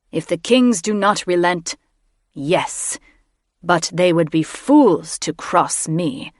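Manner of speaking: slow, cold menace; a villain musing on war; threatening mage. A narrator's reading. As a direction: mage warning about the kings.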